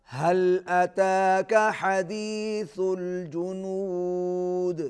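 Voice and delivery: slow, measured tajweed chant; teacher modelling a recitation; Quran recitation. Shown as a demonstration. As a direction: recite it slowly for the pupil to copy. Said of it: "teacher models verse".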